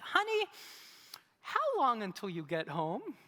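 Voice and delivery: calm and casual, masking his pain; forced calm. Retold or imitated. On the phone to his wife, a forced casual calm. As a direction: keep it light so his wife won't worry. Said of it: "in the calmest voice that I can muster".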